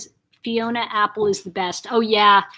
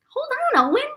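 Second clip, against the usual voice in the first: high-pitched call to an interrupter; much faster than usual. Real, not acted. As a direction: call out high, telling them to hold on. Calls to Owen, who interrupts.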